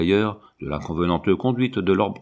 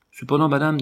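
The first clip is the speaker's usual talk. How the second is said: higher-pitched, mildly exasperated objection; 6 semitones higher than usual. A narrator's reading. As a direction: object with patience running out. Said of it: "achevait d'exaspérer". (objection exaspérée)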